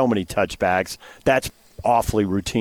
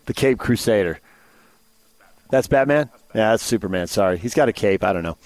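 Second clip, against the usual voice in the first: distracted; 5 semitones lower than usual. Real, not acted. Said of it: "I'm sorry, I'm distracted".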